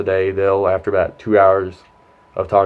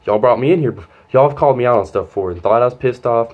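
retold angry complaint, a bit raised; heated, pushing through the grievance; pissed off; 3 semitones higher, 3 dB louder than usual. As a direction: re-enact telling them off. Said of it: "I'm pissed off".

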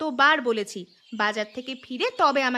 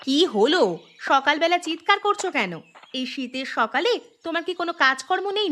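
annoyed scolding. Acted. Wife woken early, scolds husband.

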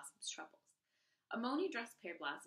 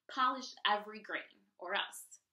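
louder, menacing command; loud threat; 7 dB louder than usual. Acted. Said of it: "she ordered".

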